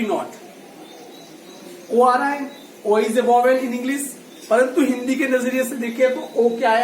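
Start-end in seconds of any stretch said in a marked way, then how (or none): 2.8-4.0 slow dictation. Shown as a demonstration. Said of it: "teacher dictates rule slowly".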